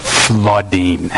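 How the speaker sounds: low, lingering stress on "flooding"; drawn-out FLOODING. Retold or imitated. Preacher stressing his son's tears, drawn-out "flooding". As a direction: stretch "flooding" out slowly for emphasis.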